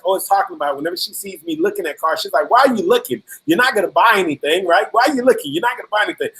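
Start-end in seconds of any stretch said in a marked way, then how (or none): 2.5-6.3 lightly voiced wife's needling; mild mock challenge, imitating a teasing wife. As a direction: playfully quote a doubting wife. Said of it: "she's always teasing me".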